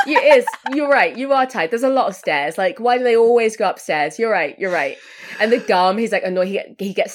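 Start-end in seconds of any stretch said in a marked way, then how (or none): 0.1-5.0 high laughing agreement, a touch hammed-up; laughing mock sympathy. Talking back to the tired killer, laughing mock sympathy. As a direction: laugh along and console him. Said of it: "I was like".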